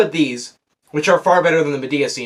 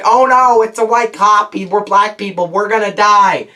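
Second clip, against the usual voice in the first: mock panic; 5 semitones higher, 5 dB louder than usual. Mocking panicked characters at traffic stop.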